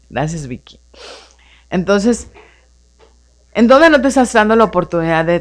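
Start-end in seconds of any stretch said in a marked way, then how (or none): 0.1-0.8 whisper. Real, not acted. Off-mic aside thanking caller.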